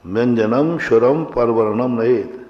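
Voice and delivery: व्यंजनम स्वरम read with every letter full, no sandhi; wrong recitation demo. Shown as a demonstration. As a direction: recite व्यंजनम स्वरम परवर्णम नयेत word by word, wrongly unjoined. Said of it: "आप अशुद्ध उच्चारण कर रहा हूँ".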